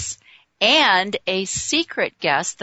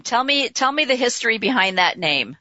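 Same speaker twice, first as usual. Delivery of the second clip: ordinary talk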